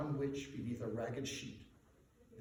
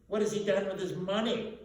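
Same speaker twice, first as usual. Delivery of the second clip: higher, louder curious gent; red-faced gentleman; 6 semitones higher, 7 dB louder than usual. A narrator's reading. Red-faced gentleman asking the businessmen, higher gossipy voice. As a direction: ask it with gossipy interest. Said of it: "asked a red-faced gentleman".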